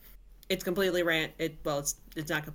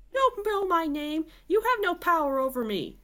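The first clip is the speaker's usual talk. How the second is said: higher, louder defiant cry; barked; 10 semitones higher, 4 dB louder than usual. A narrator's reading. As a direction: throw it back at him, defiant. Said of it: "barked Sarah".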